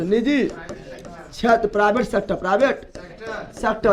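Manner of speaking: "निजी क्षेत्र" drawn out very slowly for note-taking; slow dictation. Shown as a demonstration. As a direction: spell out each word slowly so the class can write. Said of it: "दूसरा क्या था?". ("निजी क्षेत्र" को धीरे-धीरे लिखवाते हुए)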